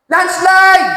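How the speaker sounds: high, loud warning yell; shouting. Acted. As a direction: shout to distract the rebels. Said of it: "sumigaw siya". (malakas na sigaw ng babala)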